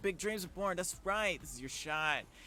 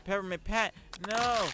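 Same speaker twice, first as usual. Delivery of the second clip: loud cry of dismay, pitched up; alarmed shout; 9 semitones higher, 11 dB louder than usual. Real, not acted. Streamer yelling at the game as the hand gets crushed, alarmed shout.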